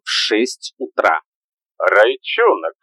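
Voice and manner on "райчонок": put-on drunk slurring. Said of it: "заплетающимся языком проговорил Дуся".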